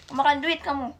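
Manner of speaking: angry scolding. Acted. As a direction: shout it at the kid. Angry mother scolds child. (omelan keras ibu marah)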